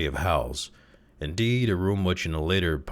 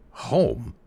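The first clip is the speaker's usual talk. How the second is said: higher, disbelieving question; incredulous; 7 semitones higher than usual. A narrator's reading. Father echoes the nurse, incredulous. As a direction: echo it in disbelief. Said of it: "repeated Mister Button incredulously".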